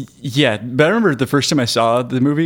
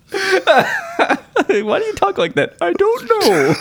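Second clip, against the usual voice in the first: sphincter voice; slower than usual. Pretend. Both hold the silly voice.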